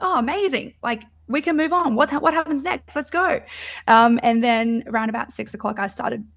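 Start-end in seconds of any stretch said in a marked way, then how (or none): 0.0-3.4 eager. Retold or imitated. Eager after waters broke.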